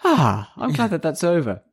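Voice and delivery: high, breezy, laughing voice; carefree. Retold or imitated. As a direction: shrug it off cheerfully, chuckling. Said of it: "And then she goes".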